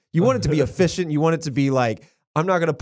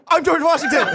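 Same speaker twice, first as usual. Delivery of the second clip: ghostly announcement; 14 semitones higher, 4 dB louder than usual. Pretend. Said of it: "you see".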